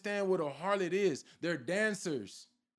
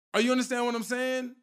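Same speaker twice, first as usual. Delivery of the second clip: preacher's shout; 4 semitones higher, 4 dB louder, faster than usual. Real, not acted. Preacher calls out to the congregation.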